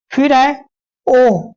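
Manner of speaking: ओ stretched out slowly; vowel sound demo. Shown as a demonstration. Teacher demonstrating the ओ vowel to students. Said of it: "ये आवाज थोड़ी ऊपर जा रही है".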